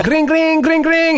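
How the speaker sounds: high, sing-out ringing noise; imitated phone ringing. Podcast host ringing in the sponsor segment, imitated ringtone. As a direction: trill out a mock ringtone.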